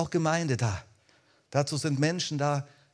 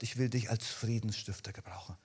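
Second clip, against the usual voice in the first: soft whisper; 5 semitones lower, 7 dB quieter than usual. Acted. Preacher voices the Holy Spirit in a whisper. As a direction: whisper it, no voice at all.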